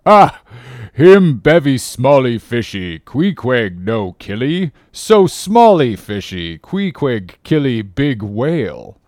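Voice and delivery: slow, disdainful pidgin harpooner; Queequeg. A narrator's reading. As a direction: scoff slowly in broken English, opening on a loud "Ah!". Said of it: "an unearthly expression of disdain".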